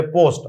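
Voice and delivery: পোস্ট with a plain short o; flat-vowelled, unaspirated পোস্ট; common mispronunciation. Shown as a demonstration. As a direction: say পোস্ট the everyday Bangla way. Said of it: "আসলে পোস্ট না".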